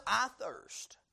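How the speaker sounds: parched whisper; whispered thirst. Acted. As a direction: breathe it out dry and spent. Voicing Christ's dying thirst.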